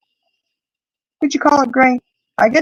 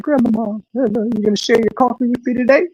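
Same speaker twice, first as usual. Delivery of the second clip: higher, quick begging puppy voice; voicing the dog; 6 semitones higher than usual. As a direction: sweet-talk grandma as the dog. Dog's thoughts voiced to grandma.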